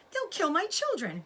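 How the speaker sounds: high, loud frightened cry; a mother fearing for her young. A narrator's reading. Mother fox fears for her children, frightened cry. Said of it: "cried Missus Fox".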